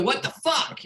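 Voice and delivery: high, incredulous what the fuck; baffled outburst. Retold or imitated. A better actor reading their dialogue, high and incredulous. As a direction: sound like a talented actor stumped by the line.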